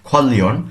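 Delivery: খোয়াল্লিয়ন with a joined double l; খোয়াল্লিয়ন, ll in the middle. Shown as a demonstration. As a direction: run a long l through খোয়াল্লিয়ন. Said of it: "লয় লয় সংযুক্ত".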